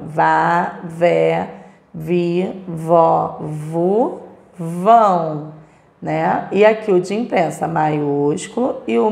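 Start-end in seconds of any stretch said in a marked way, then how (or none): 0.0-5.5 each syllable "vá", "vé", "vi", "vó", "vu" said apart, slowly; syllable drill. Shown as a demonstration. Teacher reads the V syllable family to pupils, sounding each out. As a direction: sound out "vá, vé, vi, vó, vu" one by one. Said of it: "Vamos pro minúsculo agora".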